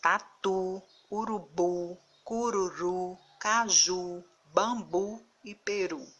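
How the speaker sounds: taTU, uruBU, caJU, final U pushed hard; intense last-syllable stress. Shown as a demonstration. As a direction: sound out Tatu, urubu, bambu deliberately, driving each last syllable. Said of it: "ao pronunciar a sílaba, a última sílaba". (Tatu, urubu, peru com mais força na última sílaba)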